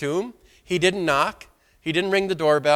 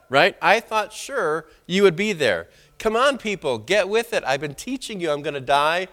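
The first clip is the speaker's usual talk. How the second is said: a hint of an irritated scolding teacher; lightly acted exasperated rebuke; mild mock anger. Imagined Jesus scolding hiding disciples, mildly irritated. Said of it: "He could have came ticked off".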